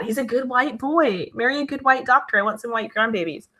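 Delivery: put-on a touch of the Jewish-mom accent carried over; mock pushy mom. Mom urges a match, lightly mock Jewish-mother accent. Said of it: "why can't white people say that".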